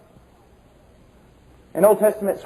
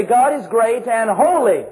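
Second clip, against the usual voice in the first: HOLY raised and drawn out; stress on holy. Shown as a demonstration. Preacher showing how we emphasize, voice raised on holy. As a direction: raise your voice on the word holy. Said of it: "we raise our voice to say".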